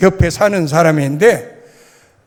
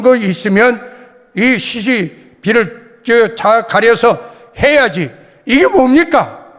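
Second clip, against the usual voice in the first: louder, indignant appeal; retold loud protest. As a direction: reenact protesting to the chief. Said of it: "하고 내가 큰 소리를 쳤더니요".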